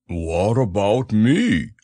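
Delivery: a bit forlorn, drawn out; understated sad bear; sad Pooh. A narrator's reading. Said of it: "said Pooh sadly".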